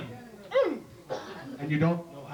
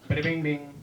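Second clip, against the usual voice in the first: imitated guitar; 2 semitones lower than usual. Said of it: "He starts playing with the kid".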